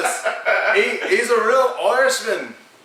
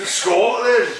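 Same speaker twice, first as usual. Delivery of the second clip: put-on Scottish accent. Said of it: "I can do that".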